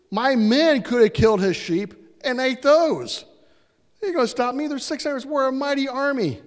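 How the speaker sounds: high, loud boast to the troops; fired-up rally cry. Retold or imitated. David boasting to his men before riding out, loud and fired up. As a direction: pump up the army before the raid.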